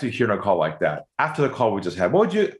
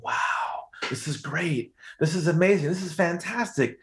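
excited noises; 5 semitones higher, 3 dB quieter than usual. Retold or imitated. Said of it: "I started this noise on the phone call".

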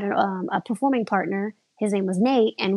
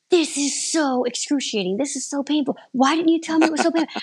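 imitating a pained, higher-pitched protest; mock anguished complaint; 6 semitones higher than usual. Husband hanging from the silks, mock anguished protest. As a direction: voice his disbelief, pitched up and building faster.

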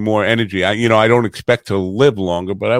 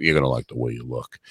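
much lower, softer deep ad slogan; low, soft announcer tag line; Men's Wearhouse ad voice; 11 semitones lower, 8 dB quieter, faster than usual. Retold or imitated. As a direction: croon it like a deep-voiced suit commercial. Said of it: "the Men's Wearhouse".

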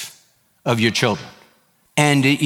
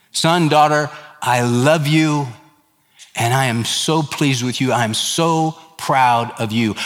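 tender father; 2 semitones lower than usual. Pretend. Father's blessing to his child.

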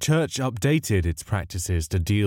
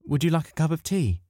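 higher, cheery hostess voice offering tea; house mimicking a sweet old lady; 8 semitones higher than usual. A narrator's reading. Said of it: "the approximation of Deirdre Brindleby's voice".

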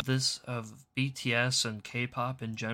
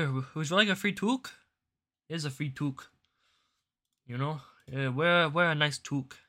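hammed-up Canadian accent, overly apologetic and chirpy; mock Canadian apology. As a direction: play a cartoonishly polite Canadian bank saying sorry, eh. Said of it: "It's so Canadian. Like".

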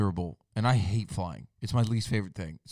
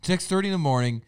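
indignant echo; 8 semitones higher, 5 dB louder, faster than usual. Real, not acted. Echoing friend's jab, indignant.

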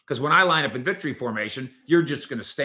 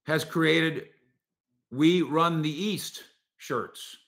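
ordinary talk

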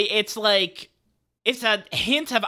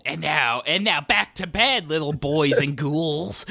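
slow spooky host voice, lightly done; jack o lantern voice; 3 semitones lower, slower than usual. Acted. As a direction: sign off like a spooky TV host, slowly. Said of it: "Spooky host signing off".

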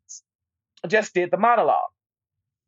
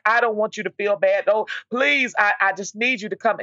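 a touch higher, half-imitated begging; tearful pleading; 4 semitones higher than usual. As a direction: imitate a friend pleading through tears, lightly. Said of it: "she was in tears".

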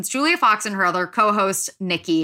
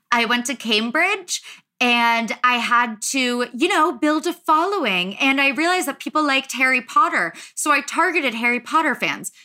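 affected, airy voice, pitched up; Caroline Calloway; 4 semitones higher than usual. Acted. Host mimicking a podcast guest's rehashed story, affected and airy. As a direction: put on an airy, affected lilt. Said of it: "she does talk in, like, that affected voice".

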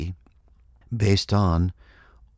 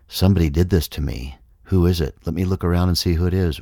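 faster and louder, hunting for a culprit; rising mock indignation; 4 dB louder, faster than usual. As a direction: build the accusation quickly and loudly. Mind hunting for someone to blame.

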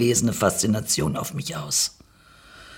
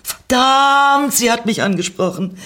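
flustered panic; 13 semitones higher, 4 dB louder than usual. Acted. Narrator realises the stranger spoke to her, flustered panic. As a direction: panic inwardly, stretching the curse high.

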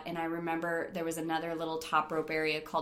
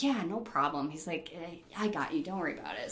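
reassuring; 5 dB quieter than usual. Retold or imitated. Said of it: "he was super nice".

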